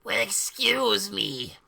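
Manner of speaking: whispered, slow and prissy; theatrical whisper; mock whisper. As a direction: hush it out like an offended aside. Characters react, whispered in reading.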